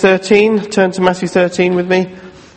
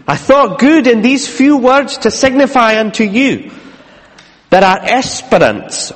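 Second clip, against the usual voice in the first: put-on formal old letter reading; 5 semitones higher than usual. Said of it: "this has got old English".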